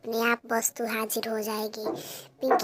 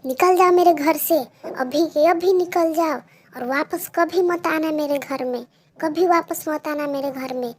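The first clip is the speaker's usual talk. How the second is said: loud, high yelling to get out; furious shout; 4 semitones higher, 9 dB louder than usual. Acted. Mother throwing Pinky out of the house, shouting.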